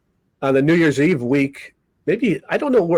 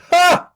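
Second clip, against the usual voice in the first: sudden bark of laughter; 4 dB louder than usual. Retold or imitated. Grudging laugh at the joke.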